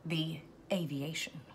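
whispered name. Acted. Dramatic reveal of the drink name.

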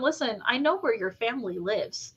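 lightly menacing, playful warning; mock threat. Author warns the characters about their families, mock threatening. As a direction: deliver a veiled threat in jest. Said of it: "that's also when you tell them".

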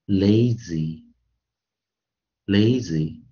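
"lazy" slowly, with A as "ay"; long A. Shown as a demonstration. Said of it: "就像元辅一一样".

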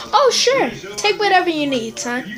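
overly relaxed permissive father; cheery white dad. Acted. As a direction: sing it out like an easygoing sitcom dad. White dad voiced in skit.

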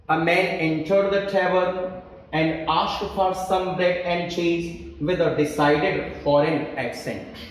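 slow, measured reading of the faulty sentence; teacher dictating the exam sentence slowly; slow dictation. Shown as a demonstration. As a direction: read it out word by word so students can spot the error. Reads example sentence slowly.

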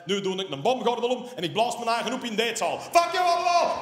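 fast, building to a high, loud yell; mock rampage. Bullied schoolboy imagining revenge, building to a scream. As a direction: rant it fast, then scream the ending. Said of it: "dat ik dacht".

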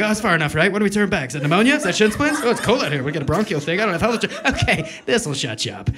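loud, whining inner voice griping mid-run; whiny inner voice. Retold or imitated. The inner voice whining at you while you jog. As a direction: complain like a lazy brain that wants to quit.

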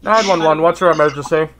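light dispatcher voice, no gurgle; a lightly voiced 911 operator. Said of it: "I've gotta get in character".

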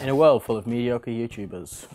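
lightly voiced trailer announcer; movie trailer voice. Feeding a teasing line to a friend, movie trailer voice. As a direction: intone it like a film trailer. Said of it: "could do the movie trailer voice".

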